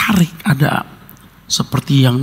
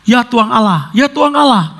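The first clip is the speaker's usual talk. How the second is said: panicked prayer; 6 semitones higher than usual. Retold or imitated.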